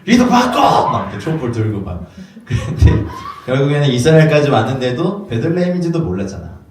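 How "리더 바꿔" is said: laughing mock demand. Wise men demanding new leader.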